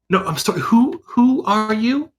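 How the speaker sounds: rising, slowed confused question; puzzled surprise. Acted. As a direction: squint at a stranger. Tora suddenly confused.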